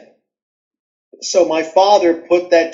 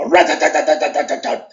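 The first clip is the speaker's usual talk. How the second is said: machine gun noise; faster than usual. Retold or imitated. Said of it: "I acted it".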